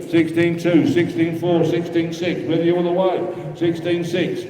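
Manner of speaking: rhythmic, repetitive bid chant; auctioneer bid calling. Acted. Auctioneer taking bids from the room, steady patter. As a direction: keep the numbers rolling to the room.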